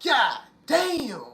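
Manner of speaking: high stunned "God damn"; awestruck god. Retold or imitated. God seeing goddesses step off the ship, high awed exclaim. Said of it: "some of the God gonna be like".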